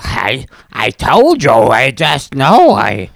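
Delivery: slow, dramatic, drawn out; slow movie voice. Acted. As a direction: stretch it like film dialogue. Acting movie dialogue.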